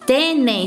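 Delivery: tenem said with plain e; wrong form tenem. Shown as a demonstration. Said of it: "ao invés de ficar".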